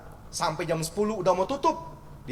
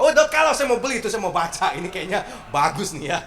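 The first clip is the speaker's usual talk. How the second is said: mock eager buyer; 6 dB louder than usual. Mock buyer wanting losing David.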